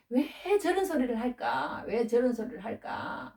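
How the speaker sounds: soft, drawn-out grumble to oneself; acted-out quiet griping; grumbling complaint. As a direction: complain under your breath, dragging the words. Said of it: "어, 막 이래요".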